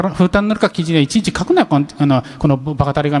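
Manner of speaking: broad Hakata dialect scolding, a bit fast. Retold or imitated. Mocking a newspaper writer, scolding in broad Hakata dialect. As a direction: tell him off in full Hakata dialect. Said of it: "博多弁丸出しで".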